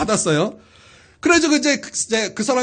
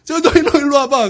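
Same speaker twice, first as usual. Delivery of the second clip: higher-pitched showy challenge, played for laughs; mock bravado; 4 semitones higher, 4 dB louder than usual. Preacher imitating himself being restrained, mock bravado. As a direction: act tougher because friends are holding you back. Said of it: "말리면 더 막 이러는 거".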